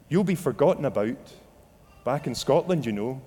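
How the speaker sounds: matter-of-fact statement, lightly voiced accuser; accusing inner voice. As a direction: state it as a mild taunt, falling away at the end. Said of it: "the whispering voice would come like clamor".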